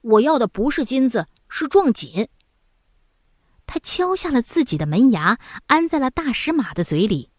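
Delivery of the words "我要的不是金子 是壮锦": resolute. Acted. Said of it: "拍着胸脯说".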